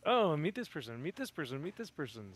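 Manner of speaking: high start, stepping down with each repeat; mock-keen string of introductions; Tugs. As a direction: imitate eager, repeated introductions. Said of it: "Tugs is just like".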